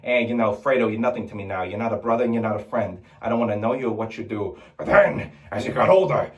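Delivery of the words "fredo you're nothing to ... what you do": seventies Al Pacino. Retold or imitated. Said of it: "Al Pacino kinda talked like this".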